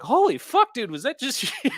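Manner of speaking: high, loud laughing exclamation; laughing disbelief. Retold or imitated. Imitating opponents who just fried him, high laughing disbelief. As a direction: crack up in disbelief as you ask. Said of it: "they're, like, laughing".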